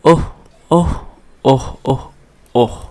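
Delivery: oh said over and over, the tune changing each time; varied inflections. Shown as a demonstration. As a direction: try a new tune on each ओह. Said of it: "uttered the word over and over again, giving a different inflection". (हर बार अलग लहजे में ओह)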